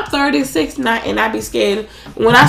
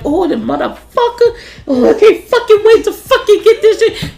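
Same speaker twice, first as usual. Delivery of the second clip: high-pitched strained griping; mock straining through a push-up; 10 semitones higher, 3 dB louder than usual. Police recruit cursing through push-ups, retold with hammed-up strain. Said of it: "what I was in there saying when I was doing a push-up".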